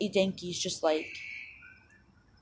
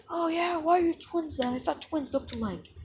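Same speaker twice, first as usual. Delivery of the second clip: higher, lightly voiced challenge; sceptical Bakugo; 9 semitones higher than usual. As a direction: question it in a raised voice, mildly doubting. Bakugo challenges the twin claim.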